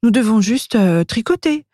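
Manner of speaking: high, light elf voice; plotting little elf. A narrator's reading. Elf telling her friend the plan, high-pitched.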